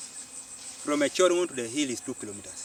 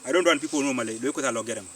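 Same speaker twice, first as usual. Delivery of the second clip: raised voice, recreating an insistent protest; retold insistent shout; 4 dB louder, faster than usual. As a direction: speak up firmly, a mild retold shout. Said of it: "insisted now and shouted my voice".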